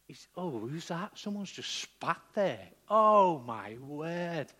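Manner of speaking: dawning disgusted realisation; appalled blind man. Acted. Blind man hearing someone spit, acted appalled surprise. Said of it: "you're thinking to yourself".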